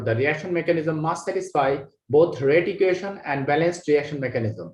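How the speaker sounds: very slow, word by word reading of the English line; slow dictation. Shown as a demonstration. Teacher reading the last line to the class, very slow and deliberate. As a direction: read each word out slowly for note-taking. Reads textbook line to students.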